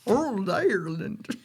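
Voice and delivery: slow, half-hearted Irish lilt on "Ould Ireland"; attempted Irish accent. Shown as a demonstration. Host tries the old woman's Irish phrase, in a weak Irish accent. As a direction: try the Irish "Ould" and fall short. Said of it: "I can't do it".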